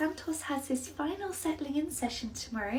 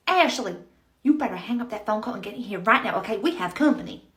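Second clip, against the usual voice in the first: calling out; 2 semitones lower, 5 dB louder than usual. Acted. Manager calls Ashley in.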